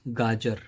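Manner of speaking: गाजर with J as in jar; undotted J in the middle of गाजर; plain J sound. Shown as a demonstration. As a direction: say गाजर carefully, no Z buzz. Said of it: "उसकी जो pronunciation है".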